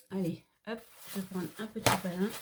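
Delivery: sniffly, stuffy nose; sniffling. Real, not acted. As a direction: talk through a sniffle. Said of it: "je renifle du nez". (en reniflant, le nez pris)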